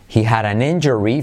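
"injury" with a rounded, u-coloured English R; "injury" with R carrying a little U. Shown as a demonstration. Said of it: "la R siempre trae consigo una U".

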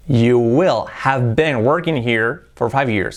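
slow, careful teacher model; slow model sentence. Shown as a demonstration. Teacher repeats the future perfect slowly for students. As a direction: say it slowly so they can repeat. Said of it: "Tú habrás estado trabajando aquí".

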